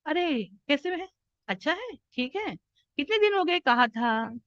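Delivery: polite greeting with no real joy; formal, unenthused. Shown as a demonstration. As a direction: go through the motions, no enthusiasm. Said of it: "formal हो रही हूँ". (औपचारिक, बिना उत्साह के)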